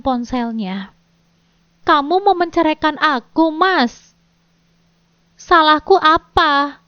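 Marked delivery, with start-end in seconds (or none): 1.9-6.8 high, louder tearful pleading; tearful plea. Acted. Wife confronting her husband, tearful and pleading. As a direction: beg through tears, voice rising. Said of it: "dengan air mata yang sudah mengalir deras".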